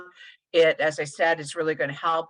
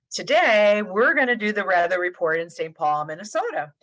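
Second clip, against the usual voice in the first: sing-song weather report; 4 dB louder than usual. Shown as a demonstration. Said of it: "I'm gonna have you guys kinda do this with me".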